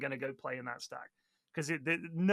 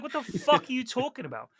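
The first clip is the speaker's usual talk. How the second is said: higher-pitched acted indignation; retold indignant retort; 6 semitones higher than usual. Player answering the German sniper, mock indignant. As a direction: fire back in disbelief, as a retold comeback. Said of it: "I was like".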